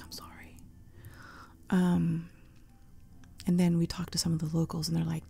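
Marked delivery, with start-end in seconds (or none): 0.0-0.6 very soft, subdued apology; hushed, apologetic imitation of the waitress; retold apology. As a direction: say sorry almost under your breath. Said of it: "she was so apologetic".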